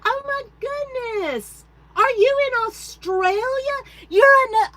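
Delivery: high, loud delighted surprise; real thrill at a viewer from far away; thrilled to spot an Australian viewer, loud and high; excited greeting. Real, not acted.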